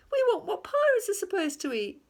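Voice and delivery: high, loud pirate voice; a captain demanding proper food; insistent pirate. A narrator's reading.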